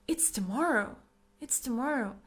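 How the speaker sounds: "tomorrow" stressed with a falling end; emphatic informing. Shown as a demonstration. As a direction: tell them firmly it's "tomorrow". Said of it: "I'm putting emphasis, like".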